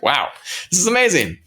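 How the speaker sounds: high-pitched starstruck wow; starstruck awe. Retold or imitated. Fan retelling meeting Jeff Goldblum, mock starstruck excitement. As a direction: jump up high like an amazed fan.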